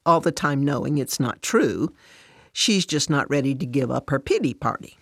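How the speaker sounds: ordinary delivery, nothing marked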